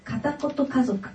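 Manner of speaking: a calm read-aloud of her own essay. Acted. (自作の作文を朗読する)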